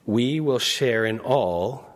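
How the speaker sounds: slow line landing on "all"; "all" set apart as the key word; stress on all. Real, not acted. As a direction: draw the phrase out slowly, weight on "all". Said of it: "I emphasize that word all".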